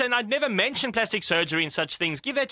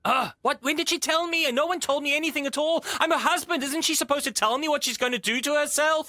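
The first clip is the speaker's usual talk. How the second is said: agitated, slightly raised-pitch questioning; angry; 2 semitones higher than usual. Acted. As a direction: demand answers as the indignant husband. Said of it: "why are you getting angry".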